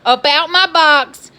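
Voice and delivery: loud, high exasperated rant; fed-up caller yelling about cookies; retold angry outburst. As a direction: let the frustration blow up at the help desk. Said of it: "And I'm just like".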